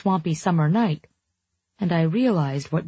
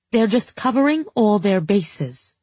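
shrill and unconvincing; 4 semitones higher than usual. Acted. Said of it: "her voice shrill and unconvincing".

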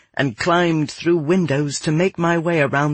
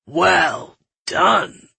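lightly voiced mayor, slow and drawn out; a hint of a pleased official; approving mayor; 3 semitones higher than usual. A narrator's reading. Mayor praises the executioner after the beheading, lightly voiced approval.

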